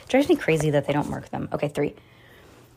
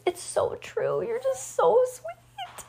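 much higher, slow, tearful; tearing up; 4 dB quieter, much slower than usual. Real, not acted. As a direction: voice breaking with emotion. Mother moved by daughter's award.

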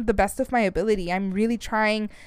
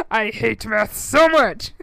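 laughing; 4 dB louder, slower than usual. Real, not acted. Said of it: "laughing about hating math".

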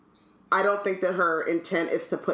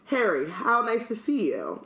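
solemn greeting; 5 semitones higher than usual. Acted. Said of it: "held out his hand solemnly".

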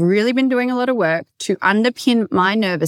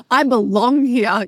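laughing; 3 semitones higher, slower than usual. Retold or imitated. Laughs while quoting herself.

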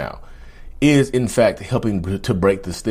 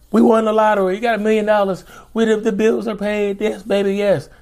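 excited shouting; 12 semitones higher than usual. Retold or imitated. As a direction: burst in cheering about the money. Partner bursts in with lottery news.

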